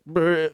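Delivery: wobbly lip-trill "brr"; imitated shudder. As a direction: imitate recoiling from water with a quick shudder. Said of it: "going and drink it and be like".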